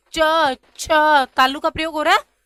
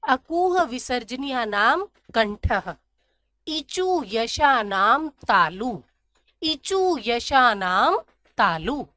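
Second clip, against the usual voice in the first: very slow, word by word rule chant; slow sutra recitation; slower than usual. Shown as a demonstration. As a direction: spell out the rule slowly so it sticks. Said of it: "recites sutra for memorising".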